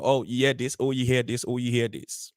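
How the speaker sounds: mock the whispered-rumour mongers in a low, unwhispered voice; imitated backbiting gossip. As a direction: repeat it low, like passing rumours along. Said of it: "go behind you and talk small".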